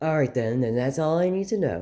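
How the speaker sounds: put-on female character voice. Telling a story, trying out how a character's voice goes: put-on voice of a female character. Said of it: "how does her voice go? She would be like this".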